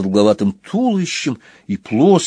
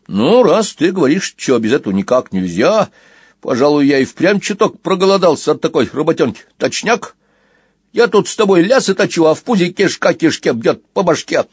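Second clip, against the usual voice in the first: otter voice; 5 semitones higher than usual. Acted. Otter Squill speaking, voiced.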